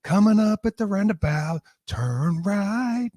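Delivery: put-on boy band. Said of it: "it would be a boy band".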